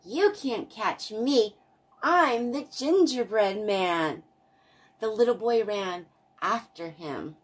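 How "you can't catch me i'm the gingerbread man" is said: loud, high taunting call; sing-song taunt, called out loud. A narrator's reading. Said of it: "he called out".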